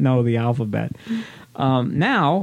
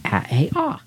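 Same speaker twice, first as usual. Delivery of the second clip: put-on child reciting sounds; 6 semitones higher than usual. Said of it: "And you're gonna say".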